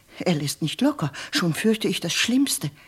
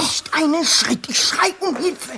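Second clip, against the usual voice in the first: frightened refusal; 9 semitones higher than usual. Acted. Frightened servant refuses intruder.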